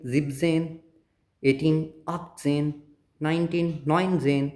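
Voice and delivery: very slow teacher's recital. Shown as a demonstration. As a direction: spell out each number slowly, one at a time. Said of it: "slow teaching recital".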